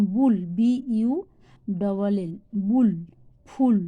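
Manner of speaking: বুল, ফুল with a short "oo". Shown as a demonstration. Teacher showing the sounds of U, "oo" in বুল, ফুল. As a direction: spell it out, then say বুল, ফুল with "oo". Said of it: "যখন হস্যও হয়".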